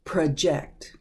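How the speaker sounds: "project" as pruh-JECT; verb pronunciation. Shown as a demonstration. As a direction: reduce the first vowel of "project" and stress "ject". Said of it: "It's pronounced differently".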